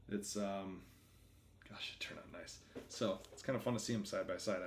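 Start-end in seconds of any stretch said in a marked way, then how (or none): 1.7-2.6 breathless little whisper of delight; awed whisper. Real, not acted. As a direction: whisper it, admiring the piece. Admiring the design up close.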